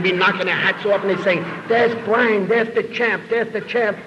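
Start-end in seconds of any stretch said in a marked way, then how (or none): 1.7-4.0 high, eager admiring chant; higher excited crowd shout; mock crowd cheer. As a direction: hail the hero like a starstruck fan. Crowd cheering the champ in fantasy.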